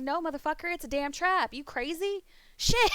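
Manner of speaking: high-pitched, hammed-up disbelief breaking into a laugh; mock outraged refusal. Streamer retelling a refusal to a friend, mock outraged. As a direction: refuse in playful alarm, voice climbing.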